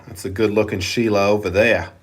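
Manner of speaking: casual mock-Australian accent; rusty attempt at an Australian accent. Shown as a demonstration. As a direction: put on an Aussie accent. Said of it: "I used to have Australian accent".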